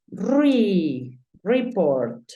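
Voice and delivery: "report" said "ree-port"; "Re" as "ree", then "report"; syllable vowel rule. Shown as a demonstration. Teacher building the word, "report" as ree-port. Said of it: "cuando termina en consonante no pasa nada".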